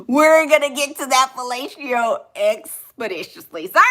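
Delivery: mock-formal, emphatic big words; highly learned talker. Learned person promising a lover action, mock-formal. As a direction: lean on the big word like a pompous scholar. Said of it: "they say little stuff like that".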